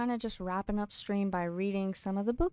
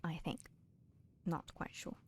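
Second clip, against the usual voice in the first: whisper; 2 semitones lower, 9 dB quieter than usual. Real, not acted. Muttering to self, unsure.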